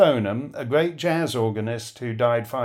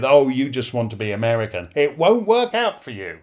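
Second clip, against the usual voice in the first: mocking tease. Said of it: "he'd mock me with".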